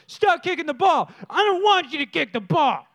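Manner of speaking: hammed-up child's outburst; mock angry yell. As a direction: imitate a boy yelling at his brothers. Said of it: "yelling at all of his brothers".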